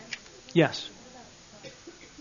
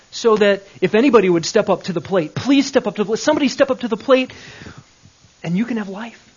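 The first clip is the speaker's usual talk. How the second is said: pleading, louder and faster toward "somebody"; mock pleading; 3 semitones higher, 4 dB louder than usual. Mocking a pleading God begging anybody to step up. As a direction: beg anyone to step up, pleading. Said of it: "wistful affections toward".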